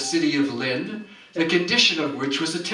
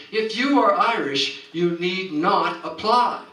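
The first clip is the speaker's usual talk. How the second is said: scolding man; 4 semitones higher than usual. Acted. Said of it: "a man with a terrible scolding eye said".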